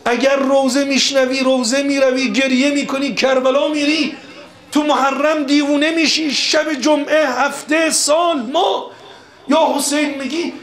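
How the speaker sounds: high, insistent list building in pitch; impassioned preaching. Acted. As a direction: drive each phrase up with fervour.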